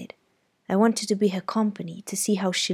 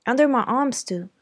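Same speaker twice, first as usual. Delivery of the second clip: higher, louder boast; proud boast; 6 semitones higher, 6 dB louder than usual. Acted. Jem boasting to Scout, higher and louder. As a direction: brag a little.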